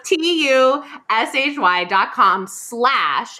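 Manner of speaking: letters T U S H Y spelled out slowly and clearly; careful slow spelling for listeners. Shown as a demonstration. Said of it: "Do people know how to spell Tushy?".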